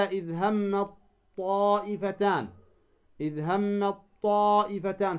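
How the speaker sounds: "إذ همت طائفتان" as hammaT-Taa'ifatan; ta merged into emphatic ta. Shown as a demonstration. Teacher reciting the rule's example, ت of همت merged into ط. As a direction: turn the ت of همت into a heavy held ط. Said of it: "تدغم التاء في الطاء".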